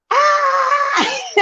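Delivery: high, drawn-out squeal; gleeful high "aah"; excited squeal. Real, not acted. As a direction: let out a high squeal that breaks into laughter. Excited squeal at end of pitch.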